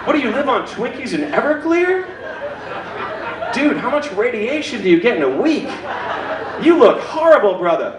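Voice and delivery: lightly voiced rude audience member, laughing through it; mocking audience. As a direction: tease him like a heckler, laughing. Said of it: "You guys would be like".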